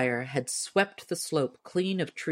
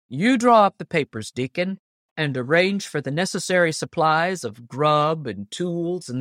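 hearty Paul Bunyan; 4 dB louder than usual. Acted. Narrator voices Paul Bunyan.

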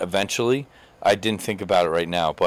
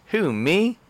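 put-on coy girl; 9 semitones higher than usual. Girl answers the pickup line.

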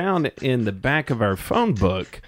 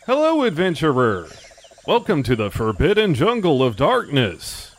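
slow, grand jungle guide; jungle guide character; 4 semitones higher than usual. Acted. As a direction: welcome them like a mysterious guide. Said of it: "I am your guide, Sanchez Lopez".

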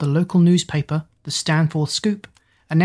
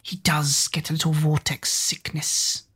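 hushed aside, barely voiced; whispering; 5 dB quieter than usual. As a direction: breathe it out as a secret. Character muttering an aside.

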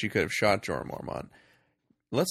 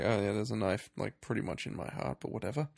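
offhand mock nonchalance; imitating someone unbothered; very casual; 6 dB quieter than usual. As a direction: shrug it off breezily. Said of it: "It is, like, very casual".

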